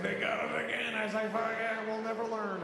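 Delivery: high, exhilarated ride-goer voices; giddy excitement. Retold or imitated. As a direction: call out giddily over the brakes. Two dads exulting as ride brakes.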